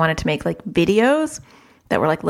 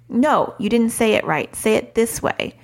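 put-on demanding toddler; 4 semitones higher than usual. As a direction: play a toddler giving orders to mom. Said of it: "when your child is like".

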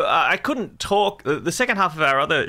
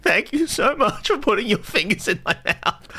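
mock gratitude; 9 semitones higher than usual. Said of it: "I'm like".

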